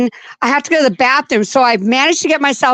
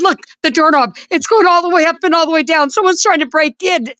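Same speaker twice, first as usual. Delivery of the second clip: frightened insistence; 6 semitones higher than usual. Retold or imitated. Frightened wife telling husband.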